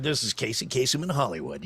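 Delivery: radio countdown host sign-off; lightly voiced DJ impression, easy and assured; Casey Kasem. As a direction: slip into a radio host's signature ID. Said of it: "That was a pretty spot on impression".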